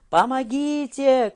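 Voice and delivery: high, slow desperate cry; a woman's cry for help, loud and high; shout for help. A narrator's reading. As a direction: scream for help. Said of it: "кричала женщина".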